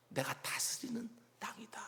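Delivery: breathy whisper, God's quiet claim; whispered declaration. Acted. God speaking to exiles in Babylon, whispered. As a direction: whisper it, intimate and certain. Preacher voicing God to captives.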